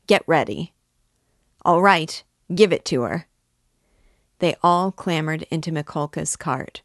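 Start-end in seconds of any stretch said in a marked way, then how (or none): 0.1-3.3 louder, forceful call; rally them with a raised voice; urging shout. A narrator's reading. Men in the cart ready their whips, calling out.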